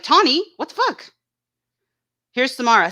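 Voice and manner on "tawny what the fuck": mock outraged yell. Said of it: "She's like".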